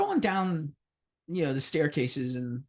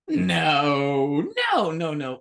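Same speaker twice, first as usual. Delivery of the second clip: mock protest; 6 dB louder, much slower than usual. Denying extortion to dean.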